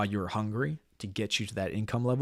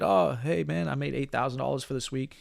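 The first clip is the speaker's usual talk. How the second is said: excited; 3 semitones higher than usual. Retold or imitated. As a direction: imitate a thrilled rookie bragging. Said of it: "He's excited".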